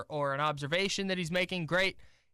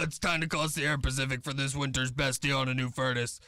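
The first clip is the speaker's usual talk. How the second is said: lightly voiced New York lady doing an ad; mock New York announcer; mock New York accent; 3 semitones lower than usual. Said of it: "I don't know why you have an accent".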